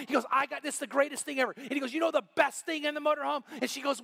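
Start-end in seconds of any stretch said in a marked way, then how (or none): 0.3-1.5 high, enthusiastic retold boast; excited boasting. Retired husband raves about his new motorhome, excited. 1.9-3.4 high, eager retold question; excited teasing. Retired husband quizzes friends on motorhome's best feature, excited. Proud husband builds up his reveal.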